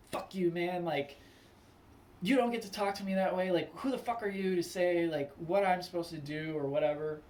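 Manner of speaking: indignant, instant mock retort; acting out someone snapping, voice lifted; snapping back. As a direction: play a hot-headed comeback. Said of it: "you just immediately snap on somebody".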